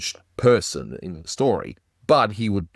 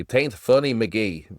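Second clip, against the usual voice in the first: Irish brogue; 3 semitones higher, slower than usual. Retold or imitated. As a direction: have a rough go at an Irish accent. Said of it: "in her Irish brogue".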